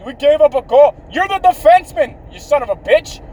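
high, loud chewing-out; Erik Karlsson yelling. Acted. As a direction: yell indignantly at a teammate. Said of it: "He's always yelling at the other players".

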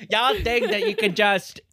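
loud, high Texas twang; Texas accent. Acted. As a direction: put on a loud Texan woman's voice. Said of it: "This woman from Texas".

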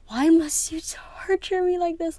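a hammed-up tortured whisper, high and breathy; mock anguished whisper. Vlogger groaning to viewers about a sad book, mock anguished whisper. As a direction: plead with the book in a dramatic hush. Reliving a tear-jerker book.

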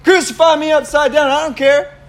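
imitating over-the-top fervour; crazy zeal. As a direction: protest like a reckless zealot. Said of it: "so crazy in his faith, so ridiculous".

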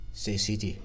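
usual speaking voice

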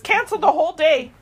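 loud, urgent retold doctor on the phone; shocked orders. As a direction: bark the orders down the line in disbelief. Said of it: "he's in shock".

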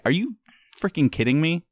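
high, incredulous outburst; outraged disbelief. Retold or imitated. Husband retelling his outrage at the pizza manager, incredulous.

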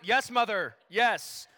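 imitated son's loud, weary acknowledgement; mock-exasperated reply to a nagging mother; exasperated teen. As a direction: answer mom loudly, fed up. Embarrassed teen answering his shouting mother.

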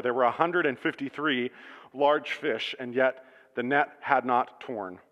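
measured, gentle Bible reading to the congregation; scripture reading. Acted. Pastor reads John 21 to his church, calm reading voice.

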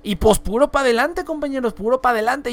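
playfully imitating a northern Mexican; northern Mexican accent. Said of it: "así hablaban".

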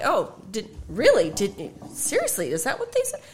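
a hint of a Minnesotan aunt, incredulous; lightly mock her disbelief; mild Minnesotan aunt impression; imitating aunt. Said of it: "His aunt said that".

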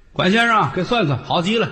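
put-on high, eager old-lady call; imitated old ladies. Old women asking the fortune-teller for a reading, high and eager. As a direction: pitch it up like keen grannies. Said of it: "老太太们".

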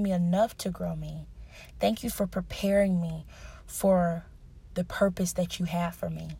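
sincere prayer. Shown as a demonstration. Models a prayer of thanks.

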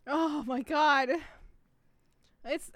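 ordinary talk

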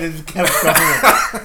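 wheezing with laughter, slowed; can barely get the words out through laughing; laughing hard. Real, not acted. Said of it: "My God, I can't breathe".

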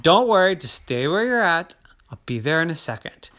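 calm him as you hurry; mom voice. Acted. Mom reassures Terry in the dark, loud then quick. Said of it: "Mommy said".

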